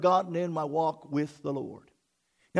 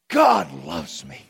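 full loud declaration; proclaimed; 5 semitones lower, 4 dB louder, slower than usual. Real, not acted. Pastor declaring it aloud to church, loud. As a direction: declare it boldly. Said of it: "loud repeat".

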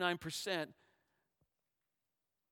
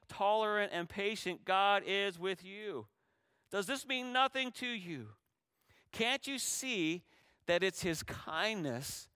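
quoting Paul; 5 semitones higher, 3 dB louder, slower than usual. Retold or imitated. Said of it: "Paul said this in Romans two four".

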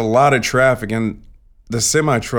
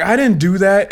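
high, louder mock denial of the truck driver; a raised, defensive I didn't do that; trucker's denial; 9 semitones higher, 4 dB louder than usual. Retelling the trucker's denial, mock indignant. Trucker denies hitting the car.

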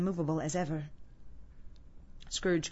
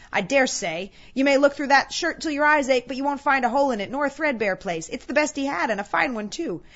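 lightly voiced bossy, unashamed gossip; brazen charwoman; 5 semitones higher, 6 dB louder than usual. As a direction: boast of the loot with emphatic swings.

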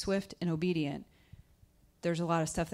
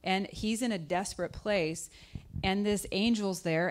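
normal talking voice

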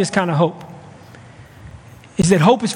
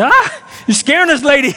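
higher-pitched, hammed-up kid's alarm; mock fright; 4 semitones higher than usual. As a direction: imitate a startled kid recoiling from someone. Kids frightened by old lady.

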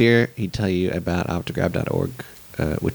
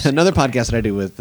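ordinary talk, nothing marked

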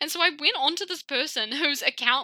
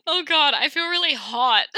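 laughing fit; 7 semitones higher, 8 dB louder than usual. Real, not acted. Helpless laughter after catfish joke.

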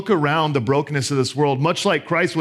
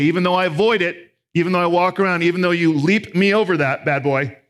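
mocking wrong version; 5 semitones higher, 3 dB louder than usual. Shown as a demonstration. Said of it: "He doesn't say".

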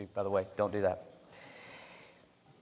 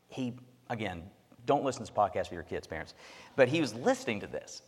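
ordinary talk

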